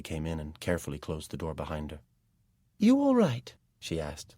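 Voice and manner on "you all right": concerned. A narrator's reading. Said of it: "looking concerned".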